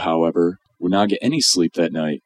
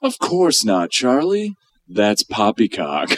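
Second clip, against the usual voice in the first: hammed-up Wonka; 4 semitones higher, slower than usual. Wonka reassuring.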